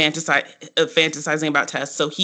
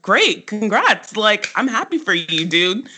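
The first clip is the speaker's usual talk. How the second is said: sarcastic congrats; 5 semitones higher than usual. Retold or imitated. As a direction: drag out the fake cheer. Tess brushing off Max.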